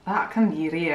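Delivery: put-on accidental Scottish accent; attempted accent that comes out Scottish. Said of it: "oh, that's Scottish again".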